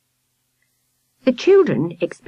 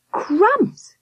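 whispered amazement. A narrator's reading. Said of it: "whispered Sam".

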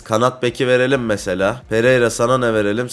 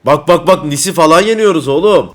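louder, higher excited call; 3 semitones higher, 5 dB louder than usual. Real, not acted. Gamer to friend as a big win comes in, excited. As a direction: crow over a big win.

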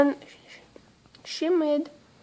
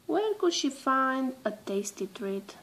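whisper; 7 dB quieter than usual. A narrator's reading. Narrator voices panda's hopeful question.

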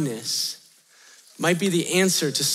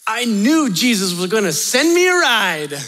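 louder, imitating an overjoyed stranger; pumped; 3 semitones higher, 5 dB louder than usual. Homeless man hops into van seeking a ride, pumped. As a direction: announce it as a pumped-up believer. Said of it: "It's somebody who is pumped".

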